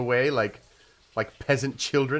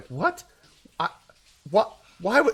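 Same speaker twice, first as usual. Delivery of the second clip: shocked gasping, stunned disbelief, higher pitch; 8 semitones higher than usual. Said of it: "they all kinda gasp".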